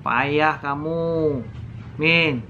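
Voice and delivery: lightly acted, low-key scolding; a mild, drawn-out grumble of reproach; grumbling aunt. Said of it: "bibi saya menggerutu". (omelan bibi yang menggerutu pelan)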